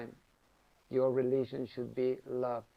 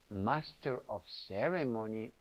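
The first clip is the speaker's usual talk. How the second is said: quiet, lower, musing repeat; soft teasing echo; 5 semitones lower, 5 dB quieter than usual. Retold or imitated. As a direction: echo his title back softly, amused. Guru repeats his answer, teasing.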